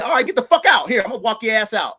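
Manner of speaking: retold angry order. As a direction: bark it like throwing her out. Kicking girlfriend out, retold argument.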